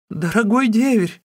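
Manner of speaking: the sister-in-law shrieking in terror at the knife; terrified shriek. Acted. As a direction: shriek it in panic. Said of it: "завизжала она".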